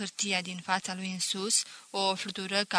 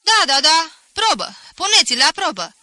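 cheerful; 8 semitones higher, 13 dB louder than usual. Acted. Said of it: "mai ziseră și alții vesel".

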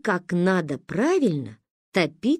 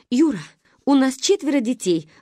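pleading; 6 semitones higher, 4 dB louder than usual. Acted. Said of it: "взмолилась мама".

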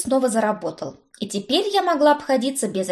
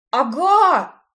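eager; 5 semitones higher, 5 dB louder than usual. A narrator's reading. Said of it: "страстно закивал он".

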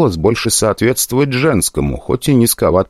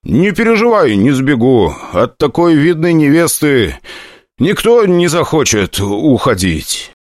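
higher, coy mock-flirty crone; coy hostess; 8 semitones higher than usual. Hostess reassuring the prince, coy and higher. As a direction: tease him like a proud bride.

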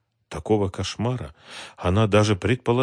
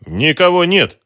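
called from another room; 10 semitones higher, 9 dB louder than usual. A narrator's reading. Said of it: "донёсся из спальни голос".

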